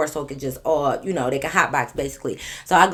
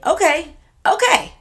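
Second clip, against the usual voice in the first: rising okay; 10 semitones higher, 4 dB louder, slower than usual. Real, not acted. Conceding laughingly.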